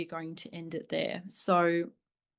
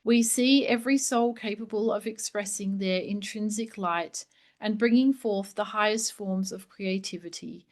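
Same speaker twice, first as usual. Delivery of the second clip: raised, ringing reading voice; formal proclamation; 3 dB louder than usual. Acted. Reading the three Marys' blessing to listeners, a ringing proclamation. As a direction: proclaim it like a sacred declaration.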